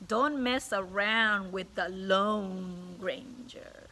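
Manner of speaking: slowing, dramatic read-aloud; storybook reading. Acted. Teacher reading the boy's embarrassment to children, slow and dramatic. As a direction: let the shame sink in slowly.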